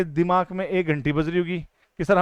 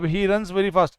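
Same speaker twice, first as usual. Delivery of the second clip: 1 slow example read; much slower than usual. Shown as a demonstration. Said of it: "अब देखना, NDA वालों सुन लो".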